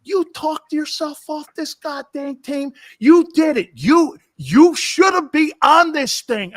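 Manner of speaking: high, furious shouting rant, slowed down; coach yelling. Retold or imitated. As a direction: bellow it like a coach chewing out a player. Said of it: "he goes".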